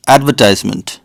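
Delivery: advertisement stressed AD-ver-TIZE-ment; American pronunciation. Shown as a demonstration. Teaching the US way of saying advertisement, American pron. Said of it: "Americans call this".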